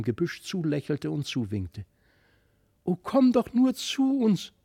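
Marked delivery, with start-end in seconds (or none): 2.8-4.5 put-on high, longing call to the child; children reaching out, calling to the strange child, higher and louder; eager calling out. A narrator's reading. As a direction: call out high, full of yearning. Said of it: "so riefen beide".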